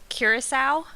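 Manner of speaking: Curacao said the American English way; Curacao with an English r, ending in "sow"; American English pronunciation. Shown as a demonstration. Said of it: "how I would say it in English".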